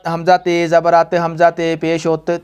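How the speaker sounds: हमज़ा ते read with village-style vowels, slow; mock the old village reading of हमज़ा ते पेश होते; wrong majhool reading. Shown as a demonstration. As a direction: demo the wrong rural way of saying हमज़ा ते. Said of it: "इस तरह का ये गलत है".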